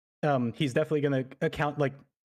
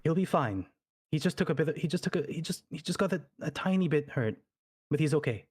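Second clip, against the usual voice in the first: mildly lifted, kindly tone; gently reassuring; 3 semitones higher than usual. Acted. Noble comforting a girl about her dad, gently. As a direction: soothe a scared child. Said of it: "like a scared child".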